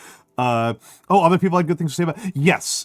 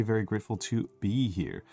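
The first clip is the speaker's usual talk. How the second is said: soft ASMR voice; 5 dB quieter than usual. Shown as a demonstration. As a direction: murmur it gently for ASMR. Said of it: "I can't get the smoke in my voice".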